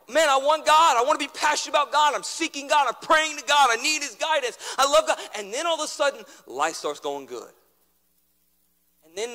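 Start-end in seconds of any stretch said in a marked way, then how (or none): 0.1-5.2 eager believer. Retold or imitated. Preacher voicing eager Uzziah.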